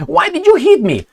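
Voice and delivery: the porch guy whining after being smacked; whiny mock cry. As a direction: play the hurt victim, whimpering.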